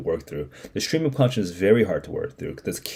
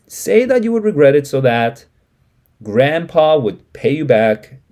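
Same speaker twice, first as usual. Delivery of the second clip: Mama's desperate plea; 4 semitones higher, 6 dB louder than usual. Acted. Mama presses her husband to admit he regrets the loan, pleading loudly. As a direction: push it like a wife close to tears.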